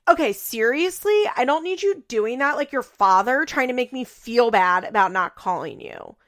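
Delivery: imitating a sharp, irritated comeback; mock angry snap. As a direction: snap it back like a defensive daughter. Amber snapping at her mother.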